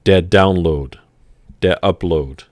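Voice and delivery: Der Download, der Upload with a light German accent; English loanwords given a German twist, German accent. Shown as a demonstration. Teacher shows English words with a German accent, German accent. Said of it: "like, a German accent".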